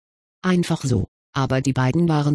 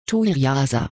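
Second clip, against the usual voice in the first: desperate; 3 semitones lower than usual. A narrator's reading. Boy clinging to her, desperately saying her name. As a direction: breathe the name like a last plea. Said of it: "Noch nie hatte sie ihren Namen so verzweifelt ausgesprochen gehört".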